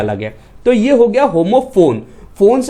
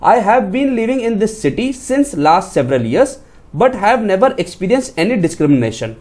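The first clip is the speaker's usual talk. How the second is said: slow reading of the wrong sentence; much slower than usual. Shown as a demonstration. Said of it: "जैसे मैं आपको यहाँ पे बताता हूँ".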